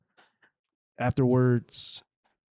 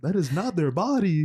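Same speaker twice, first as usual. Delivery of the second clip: mock exasperation; 7 semitones higher than usual.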